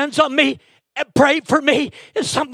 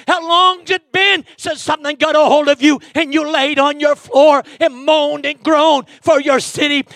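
full-force preaching. Acted. Preacher urging the church to pray for their pastor, shouting. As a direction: preach it hard to the pews.

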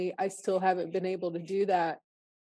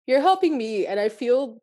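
holding back tears; 5 semitones higher, 5 dB louder than usual. Real, not acted. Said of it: "trying to hold back my tears".

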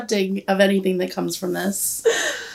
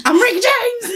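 laughing; 13 semitones higher, slower than usual. Real, not acted. Jokey fake name, laughing.

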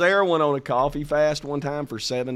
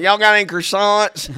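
laughing mock request; 6 semitones higher, 11 dB louder than usual. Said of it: "I'm like".

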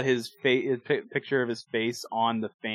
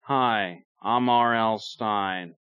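slow, lightly put-on author voice; R L Stein; much slower than usual. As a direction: draw out a mock self-introduction. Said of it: "and he sounded like this".

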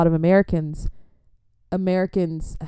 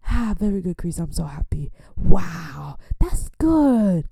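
proud father; slower than usual. Retold or imitated. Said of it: "he was singing".

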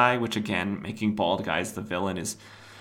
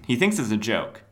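ordinary talk, nothing marked

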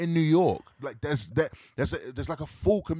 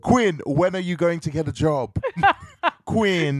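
mock Jamaican mother calling; bad Jamaican accent; 4 dB louder than usual. Host parodying a mother nagging Quinn, bad Jamaican accent. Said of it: "try to do that Jamaican accent".

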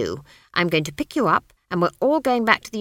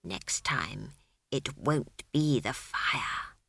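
much lower and softer, very slow; menacing low whisper; whiplash whisper; 5 semitones lower, 8 dB quieter, much slower than usual. Acted. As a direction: drop to a deadly hush. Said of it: "sank to a whiplash whisper".

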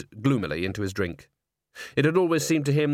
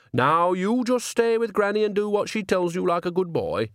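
put-on coaxing old nanny; 8 semitones higher than usual. A narrator's reading. Nanny cooing at cat-man Grebo.

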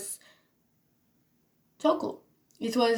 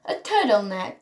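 slight British accent on "turtleneck". Real, not acted. Vlogger repeats her outfit item, British accent. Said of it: "a British accent a little bit sometimes".

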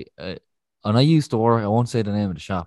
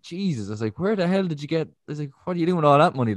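higher-pitched mild disbelief; retold shock; 5 semitones higher than usual. Retelling his reaction to a huge roll of fifties, mildly shocked. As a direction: act out being taken aback, voice lifted.

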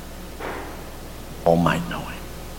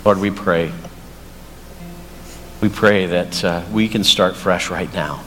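closing prayer; 6 semitones lower than usual. Acted. Pastor praying for the congregation, low and earnest.

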